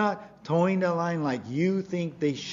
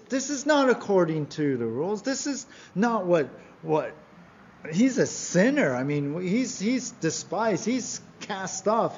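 mock indignant protest, higher pitched; complaining crowd; 4 semitones higher than usual. Preacher voicing the crowd grumbling at Jesus, indignant complaint. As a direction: imitate a scandalized crowd, stretching the accusations. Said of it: "they complained".

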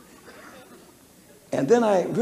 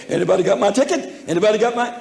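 mock pleading; 5 semitones higher, 5 dB louder, faster than usual. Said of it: "to the railroad and say".

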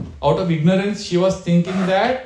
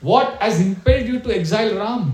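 angry reproach; 3 semitones higher than usual. Retold or imitated. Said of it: "he becomes very angry".

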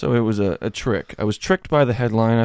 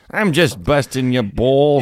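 playful jab with more volume; teasing, louder; 2 semitones higher, 4 dB louder than usual. Acted.

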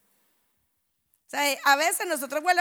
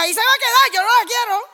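higher, louder "no la quiero"; firm refusal; 7 semitones higher, 9 dB louder than usual. Retold or imitated. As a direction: reject it flatly and loud. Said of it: "Y me dijo". (rechazo firme en voz alta)

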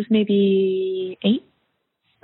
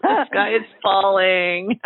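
Eeyore; slower than usual. Retold or imitated. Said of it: "like Eeyore".

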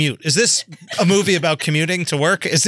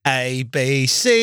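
put-on British accent; 4 semitones lower, much slower than usual. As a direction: recite letters in a mock British accent. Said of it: "He won't stop that fucking accent".

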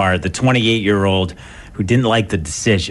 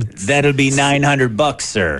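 mock officer; 4 semitones higher, slower than usual. Acts officer issuing the fine.

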